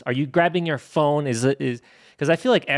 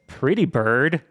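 PRETTY BIRD rising like a question; Pretty Bird with an audible question mark; much slower than usual. Retold or imitated. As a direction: read Pretty Bird as a puzzled texted question. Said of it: "Question mark?".

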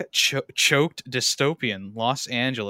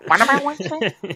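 put-on very old man; 12 semitones higher, 8 dB louder than usual. Continues deaf old man bit.

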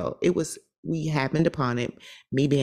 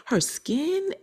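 admiring whisper; 10 semitones higher, slower than usual. Retold or imitated. Admiring whisper about lady.

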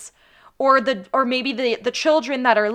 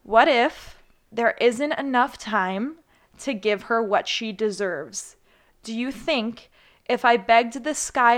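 poem reading. Shown as a demonstration. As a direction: read the poem so they really hear it. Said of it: "I'm gonna read it out to you".

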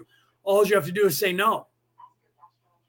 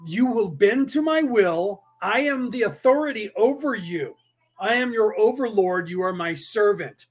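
aggressive tone. Retold or imitated. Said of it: "in an aggressive tone".

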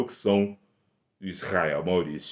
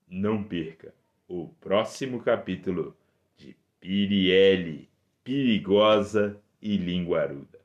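booming radio serial promo; old radio serial announcer; 3 dB louder than usual. Acted. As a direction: announce the next episode grandly.

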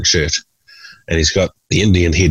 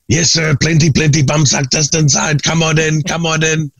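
eager tout; 10 semitones higher than usual. Retold or imitated. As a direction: beckon him in like a keen tout. Street touts luring him in.

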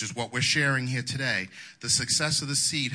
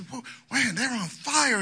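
mock impressed onlooker; 12 semitones higher than usual. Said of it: "Then you say".

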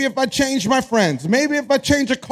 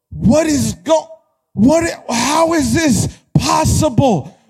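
baffled, broken-up sputtering; incredulous, rising protest; acted disbelief; 2 semitones higher than usual. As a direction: stammer in mock outrage at the impossible. Acting out bewildered job and boyfriend changers.

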